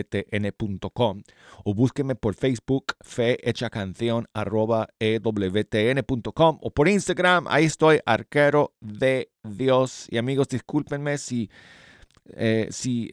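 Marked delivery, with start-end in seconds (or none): 1.6-13.1 talking with new braces. Real, not acted. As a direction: mouth full of pebbles. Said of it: "parece que tengo la boca llena de".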